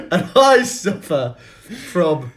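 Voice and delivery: slow, hammed-up bad Cockney accent; bad Michael Caine. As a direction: stretch the words in a poorly faked Cockney. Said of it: "this is a really bad accent".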